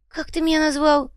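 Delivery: high, indignant squawk at being called a goat; offended goblin snapping back at an insult; outraged. Acted. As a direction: demand to know what he was called.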